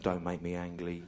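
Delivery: "Ang Lee" run together in place of "angry". Retold or imitated. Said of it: "Ang Lee, and you directed it".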